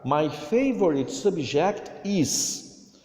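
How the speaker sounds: slow, careful English model sentence; teacher reading a dialogue line slowly. Shown as a demonstration. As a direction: read it slowly for pupils to copy. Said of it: "O importante aqui é pronunciar a palavra".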